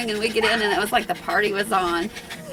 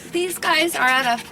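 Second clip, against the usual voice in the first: much higher and louder, fond cooing to the dog; cooing pet talk; 9 semitones higher, 7 dB louder, slower than usual. Real, not acted. Owner coos at crying dog.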